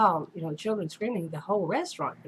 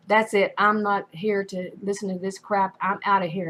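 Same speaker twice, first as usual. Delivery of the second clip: louder, mildly mad outburst; retold anger; 5 dB louder than usual. Elderly diner walking out over the noise, retold mild anger. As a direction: imitate someone fed up, with raised volume. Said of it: "He was really mad".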